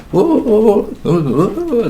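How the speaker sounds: high excited whoa whoa; mock church whooping. Narrator mimicking congregation hollering excitedly. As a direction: imitate the congregation hollering in praise. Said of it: "they're all like".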